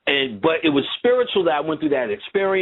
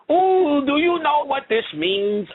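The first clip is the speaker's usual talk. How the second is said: fake African English accent; 11 semitones higher, slower than usual. Girl reacting to news about New Orleans in a mock African English accent. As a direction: gush it out in her fake possessed accent. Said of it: "Why is she talking like this?".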